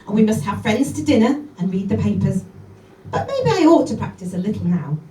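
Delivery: brisk lively recitation of a poem; poem reading. Acted. Comedian reads Jenny Joseph poem to the audience: lively recitation. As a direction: read it out with relish.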